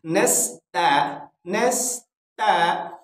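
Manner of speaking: "नस्ता" with a thin, light t. Shown as a demonstration. Teacher drilling the two-dot ta, thin t in "नस्ता". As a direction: keep the ता of "नस्ता" thin, not heavy. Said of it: "इसको बारीक करके पढ़ना है".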